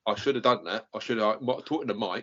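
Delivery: mock rough London accent; put-on rough accent. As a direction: joke along in rough London speech. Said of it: "talking like this".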